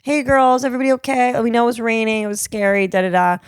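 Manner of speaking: put-on friendly officer calming shaken girls; kind police officer. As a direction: reassure the girls kindly. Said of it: "They were like".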